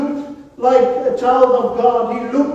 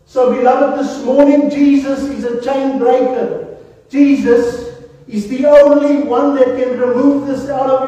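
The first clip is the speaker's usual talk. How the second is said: louder, rising preacher's call to the church; fervent preaching; 3 semitones higher, 3 dB louder than usual. Acted. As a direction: drive it home to the congregation. Preaching climax to congregation.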